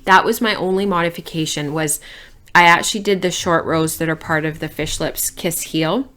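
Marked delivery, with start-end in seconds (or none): 2.6-6.1 talking with fibre in mouth; words round a bit of alpaca; mouth full. Real, not acted. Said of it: "I have alpaca in my mouth".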